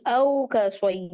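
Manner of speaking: very slow औ का सोई with open au and ai; tajweed demo. Shown as a demonstration. Teacher recites the verse words slowly. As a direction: stretch सोई into a clear sai glide. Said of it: "याए लीन क्या होती है".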